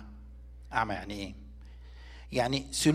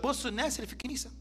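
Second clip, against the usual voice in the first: mocking scoff; faster than usual. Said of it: "اللي في العالم ده بيتريق على الكنيسه".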